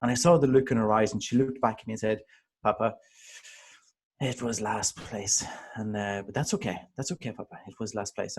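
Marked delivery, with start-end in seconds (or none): 2.6-8.4 daughter's gentle reply. Retold or imitated. Daughter softly consoles her papa about last place, quiet. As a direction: gently reassure your papa, hushed. Daughter comforting dad after loss.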